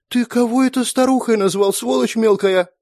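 high, loud outraged shriek. A narrator's reading. Sister yelling at brother for calling her old, furious. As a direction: scold the little brat.

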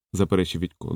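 ordinary delivery

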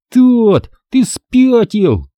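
slow, tight, high and pressed; through clenched teeth. Acted. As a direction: squeeze it out through gritted teeth. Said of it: "сказал я сквозь сжатые зубы".

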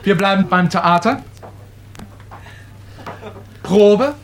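ordinary delivery

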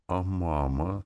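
plain reading voice

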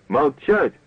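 thin cracking voice shouting commands. A narrator's reading. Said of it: "тонким срывающимся голоском выкрикивала всякие команды".

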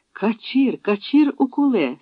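high, surprised recognition; a sudden startled call of a friend's name; startled cry. A narrator's reading. Startled fugitive recognizing an old friend, calling out. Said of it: "стрепенувся Добриня".

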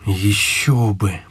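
slow, drawn-out encouragement; подбадривание. Acted. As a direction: back a friend up, unhurried. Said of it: "подбадривал я". (неторопливо подбодрить друга)

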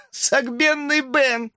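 put-on high, slow falsetto yell of a teasing boy; hamster's shout. A narrator's reading. Hamster taunts Ben, a high slow falsetto shout. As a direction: squeal the nickname out mockingly. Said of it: "вдруг выкрикнул хомяк".

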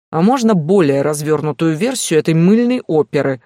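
loud, sharp and sarcastic; angry. Acted. Stas angrily demands the full story from Vitalina, sarcastic. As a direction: snap it with contempt. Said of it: "зло сказал Стас".

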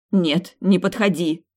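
slow, loud cry to stay away; pained cry. Acted. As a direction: push him away with a pained shout. She recoils in pain.

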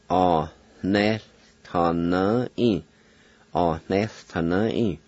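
Honest, ta, na, i, with a breathy H before the N; Cherokee pronunciation. Shown as a demonstration. Teacher repeating the Cherokee word with its H sound. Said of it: "Like this".

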